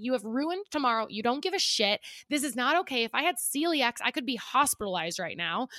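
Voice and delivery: acted-out indignant scolding; retold livid rant. Diner retelling her rant at restaurant staff, livid. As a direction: replay telling off the waiter. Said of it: "I was so livid".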